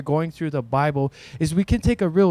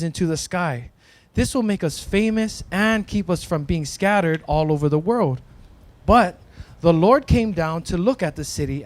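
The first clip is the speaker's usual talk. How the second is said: measured story narration read aloud; scripture reading. Acted. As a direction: read the Bible passage to the group, steady and clear. Reads Bible story aloud.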